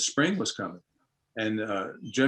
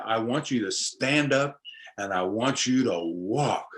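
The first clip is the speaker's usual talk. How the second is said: healer's command; slower than usual. Retold or imitated. Healer commands injured man to walk.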